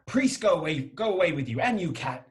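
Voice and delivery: shooing away. Acted.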